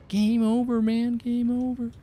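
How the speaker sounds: high, panicky quoted wail; movie quote. Retold or imitated. Streamer quoting a panicked movie line after a wipe.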